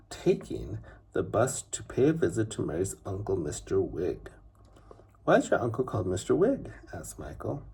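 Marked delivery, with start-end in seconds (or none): 5.2-6.7 fast, slightly higher eager question; curious boy. Acted. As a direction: blurt it out like a nosy child. Curious boy asking quickly.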